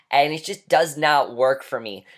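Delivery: ordinary talk, nothing marked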